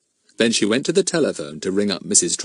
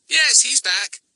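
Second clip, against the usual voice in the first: put-on much higher cheerful boy's voice; 14 semitones higher, slower than usual. A narrator's reading. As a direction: answer brightly and innocently. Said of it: "said Fatty cheerfully".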